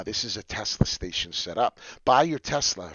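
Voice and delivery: ordinary delivery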